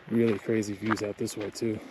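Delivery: breathless from the climb; winded, catching breath between words. Real, not acted. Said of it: "Sorry, I'm out of breath".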